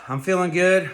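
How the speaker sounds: breathless from a workout; winded, catching breath between phrases. Real, not acted. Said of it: "I'm out of breath 'cause I'm working out".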